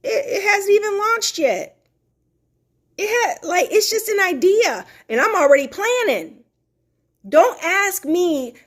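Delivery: high, laughing excitement; excited gush. Real, not acted. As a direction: bubble over about the new idea. Gushing over her unlaunched brand.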